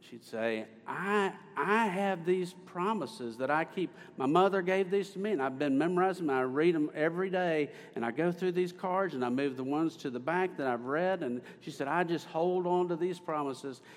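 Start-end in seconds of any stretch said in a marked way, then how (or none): 0.9-11.2 gentle impression of a churchwoman; Miss Penner. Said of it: "I'm doing her voice, aren't I?". 11.9-13.8 gentle impression, lifted above the narration; Miss Penner. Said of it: "I'm doing her voice, aren't I?".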